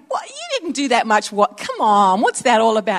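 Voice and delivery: incredulous complaint at the brother; what, you never did that much; indignant disbelief. Retold or imitated. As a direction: sister accusing her brother of padding his tally, indignant. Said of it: "I'm like".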